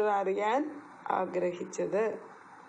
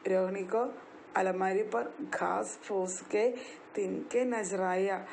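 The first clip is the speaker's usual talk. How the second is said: slow drill. Shown as a demonstration. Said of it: "പറഞ്ഞേ".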